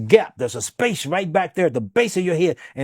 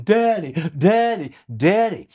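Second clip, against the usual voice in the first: retold scream; 4 semitones higher than usual. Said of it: "And she was screaming".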